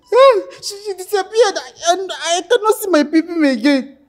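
tearful. Acted. Man crying about vanished manhood.

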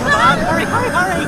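high, loud hurried calls; frantic urging. Acted. Flug urging the others to flee, frantic loud calls. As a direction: rush everyone out.

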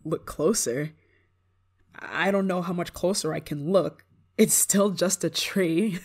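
usual speaking voice

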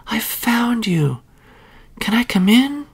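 whispered. A narrator's reading. Child asks mother bear for shelter, high whisper. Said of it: "she whispered".

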